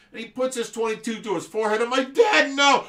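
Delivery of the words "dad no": high, very loud mock yell; horrified kid's cry. Kid stopping Dad from shooting, horrified yell. Kid protests as gun is aimed.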